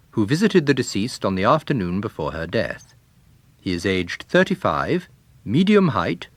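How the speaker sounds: formal police bulletin read; radio announcer. A narrator's reading. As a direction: read it like a 1930s wireless announcer. Wireless announcer reads message.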